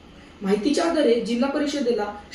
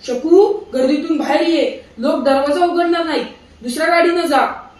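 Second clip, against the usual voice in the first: shouting; 4 semitones higher, 7 dB louder than usual. A narrator's reading. Husband shouts to wife stuck at train door, urgent. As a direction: call out urgently over the noise. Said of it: "माटे काका पुन्हा ओरडले".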